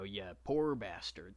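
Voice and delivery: lightly voiced Texas accent, drawn out; a slow touch of Texas; Odysseus. Narrator quoting his hero to show the fit, light Texas accent. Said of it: "read in Odysseus's voice".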